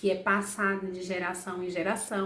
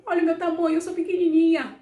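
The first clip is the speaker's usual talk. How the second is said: high, louder playful tone; playful wonder; 7 semitones higher, 6 dB louder, much faster than usual. Acted. Teacher showing kids how small she is, playful. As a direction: make it cute and tiny-sounding.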